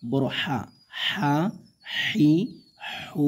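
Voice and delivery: হা said with air coming lightly from the throat; breathy big ha. Shown as a demonstration. Teacher showing students the breathy big হা. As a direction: let breath flow out of the throat on হা হি হু. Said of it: "হালকা গলা থেকে বাতাস কিন্তু চলে আসবে।".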